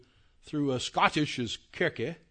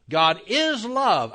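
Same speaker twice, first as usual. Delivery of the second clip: "is" drawn out, much higher and louder, slow; stress on IS; 5 semitones higher, 5 dB louder, much slower than usual. Shown as a demonstration. Teacher demonstrating emphasis on "is" to the class. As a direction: land the weight on "is". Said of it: "I emphasize".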